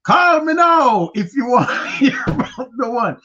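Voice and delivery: hammed-up hotline plea; Miss Cleo impression. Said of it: "Miss Cleo".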